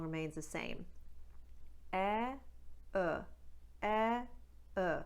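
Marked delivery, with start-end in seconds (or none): 1.9-5.0 Newfoundland "ow" starting on "eh"; Newfoundland accent, eh-uh glide. Shown as a demonstration. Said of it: "they start with eh".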